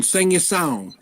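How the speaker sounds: "sing your song" with no hard g; easy, run-together "sing your song"; soft final G. Shown as a demonstration. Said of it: "the way I say it".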